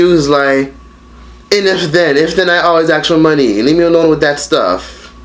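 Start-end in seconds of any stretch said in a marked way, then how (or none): 1.5-5.1 mocking mom. Mother voiced in retold call.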